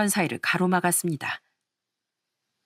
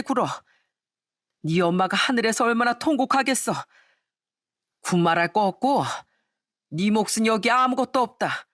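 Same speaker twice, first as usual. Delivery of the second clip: angry father disowning son; 3 semitones higher than usual. Acted. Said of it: "또 화를 내셨어요".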